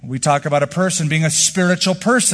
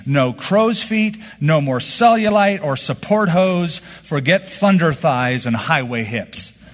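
reading a quote; slower than usual. Retold or imitated. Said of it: "she writes this".

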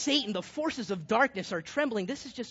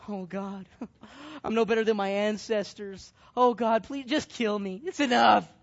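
a hammed-up despairing cry to God, louder toward the end; mock despairing plea; 5 dB louder than usual. Elijah begs God to end his life, hammed-up and growing louder. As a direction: beg God dramatically, building in volume.

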